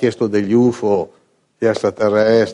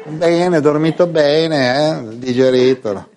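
mock on-air chat; 5 semitones higher, much slower than usual.

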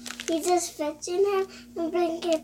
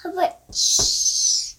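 whispering. Real, not acted.

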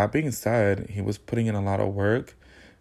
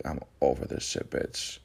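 fed up; 7 semitones lower, 6 dB quieter than usual. Retold or imitated. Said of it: "And I was just like".

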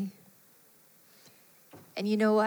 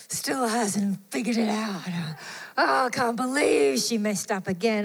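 exasperated sigh. Retold or imitated. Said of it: "like, oh, rolled eyes".

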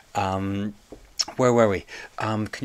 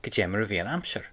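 quick model answer; faster than usual. Shown as a demonstration. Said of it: "How was the weather?".

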